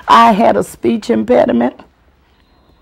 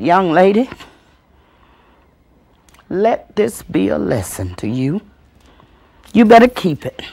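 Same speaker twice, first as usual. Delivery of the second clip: stern scolding. Acted. Aunt lectures child after the danger.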